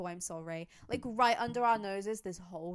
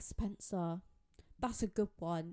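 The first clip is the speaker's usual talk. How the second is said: put-on gentle British-accented voice; 2 semitones lower, 5 dB quieter than usual. Retelling a TV reveal scene as a character turns around, Alex's British accent. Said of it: "in her British accent".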